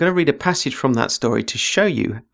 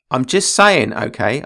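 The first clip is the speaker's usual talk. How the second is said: defensive; 4 dB louder, slower than usual. Acted. Blake backing off defensively.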